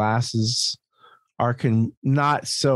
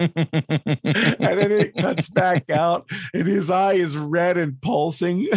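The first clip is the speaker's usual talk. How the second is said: laughing while telling; 4 semitones higher, slower than usual. Real, not acted. Laughing through a funny retelling.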